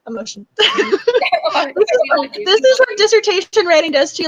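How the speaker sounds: high laughing-crying voice; tearful, emotional. Real, not acted. Worn-out dissertation writer excuses her emotions, tearfully laughing. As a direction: laugh helplessly through real tears. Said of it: "my voice is wobbling 'cause I'm really crying".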